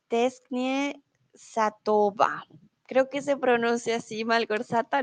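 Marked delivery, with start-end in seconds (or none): 0.1-2.4 "Tesknie Satova" slow and careful; "Tesknie Satova" despacio; reading Polish. Shown as a demonstration. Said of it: "Malgorzata dice". (leyendo polaco con cuidado)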